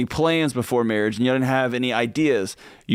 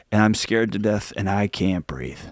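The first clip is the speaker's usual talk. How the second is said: scared pleading; 4 semitones lower than usual. Pretend. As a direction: ask for help as if frightened, voice sinking lower. Wife pleading with husband about money.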